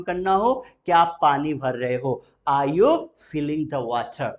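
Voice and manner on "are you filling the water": very slow, word by word; slow model question. Shown as a demonstration. Teacher models the question for students to repeat, very slow. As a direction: lay each word out for learners. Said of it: "बोलेंगे जरा".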